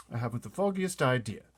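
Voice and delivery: a hint of a breezy young officer; lightly voiced young pilot. Pilot answering his chief, lightly amused.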